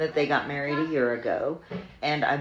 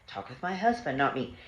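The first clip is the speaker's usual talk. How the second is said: calm firm reply. Retold or imitated. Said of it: "And then I said".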